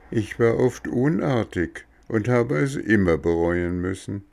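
lightly voiced, pleading wooden boy; remorseful boy. Bengele apologises to the cricket, pleading boy voice. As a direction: beg for your father's sake.

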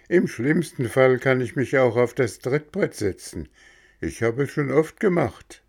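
a keen lad jumping at the offer; eager boy. Acted. Röhrle insists to coachman.

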